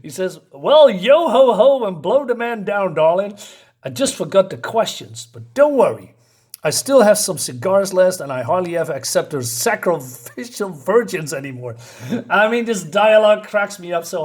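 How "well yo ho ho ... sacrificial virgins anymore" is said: lively, lilting burst of mild glee; happy Wolverine. Acted. Wolverine gleefully answering the redhead woman, happy and lively. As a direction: read it as a cheerful, swaggering reply. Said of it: "Wolverine's very happy".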